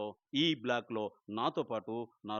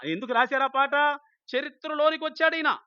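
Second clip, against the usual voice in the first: much higher and louder fiery preaching; preaching at full force; 13 semitones higher, 10 dB louder than usual. Acted. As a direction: challenge the congregation at the top of your voice.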